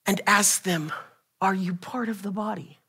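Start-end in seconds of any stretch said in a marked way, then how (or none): 1.4-2.8 quiet example question. Shown as a demonstration. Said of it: "turn to him real quick ... and ask them".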